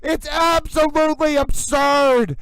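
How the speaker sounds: outraged shout; furious yell. Real, not acted. Livestreamer yelling about the trial, furious shout. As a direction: let it burst out, furious. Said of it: "you heard me yelling".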